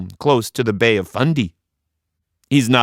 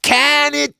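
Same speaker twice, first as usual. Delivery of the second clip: curt dismissal; 4 dB louder than usual. A narrator's reading. Annie cuts Joe off.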